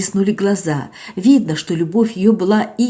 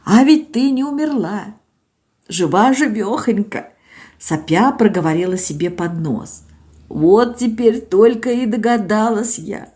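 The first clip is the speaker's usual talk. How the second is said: put-on higher, plaintive old woman pleading; tearful old village woman; 5 semitones higher than usual. Old Zinaida to doctor Olga, plaintive and tearful. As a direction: voice an old woman close to tears.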